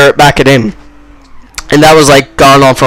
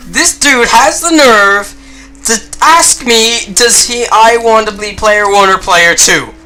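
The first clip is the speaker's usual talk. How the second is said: incredulous indignation; 5 semitones higher, 3 dB quieter than usual. Real, not acted. Indignant at friend's nerve.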